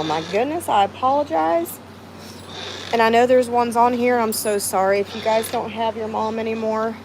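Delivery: fighting back tears while apologizing; emotional, on the edge of tears; choked up. Real, not acted. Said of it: "I don't know why I'm just so emotional".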